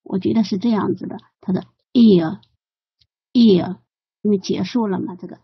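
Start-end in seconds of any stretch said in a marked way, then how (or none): 1.9-3.8 ear，ear slowly drawn out, lips closing at the end. Shown as a demonstration. Teacher explaining why the BBC teacher closes ear, slow demo. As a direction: stretch ear，ear and let the mouth close. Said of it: "它闭拢了".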